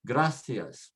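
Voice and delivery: gracias with GRA leaned on, then falling; stress next to last. Shown as a demonstration. Teacher models the rule for learners, stressing gracias on GRA. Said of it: "put the stress next to the last".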